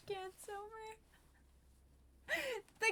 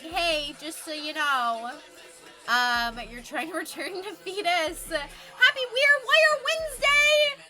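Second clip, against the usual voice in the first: mock message to mom; 5 semitones higher, 9 dB louder than usual. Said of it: "And be like".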